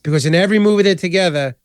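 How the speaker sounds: usual speaking voice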